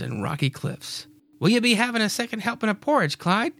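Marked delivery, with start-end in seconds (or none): 1.4-3.5 quick, higher wifely voice; Mary's voice. Acted. Mary offering Clyde more porridge, quick and higher. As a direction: offer breakfast brightly.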